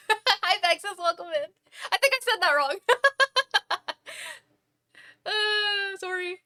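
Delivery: talking with a mouthful of avocado; chewing while talking. Real, not acted. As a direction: speak around a bite of food. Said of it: "I'm also eating a little bit of avocado".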